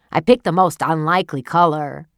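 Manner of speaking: understated cold reply; husband coldly dismissing his wife; a touch of coldness. Acted. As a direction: say it coolly, unimpressed. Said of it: "he replied coldly".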